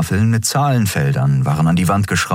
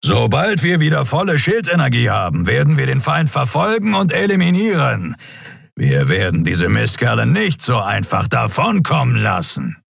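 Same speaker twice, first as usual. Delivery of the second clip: higher, determined command voice; grim captain; 7 semitones higher than usual. A narrator's reading. Captain to his crew, determined. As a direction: vow to hunt them down.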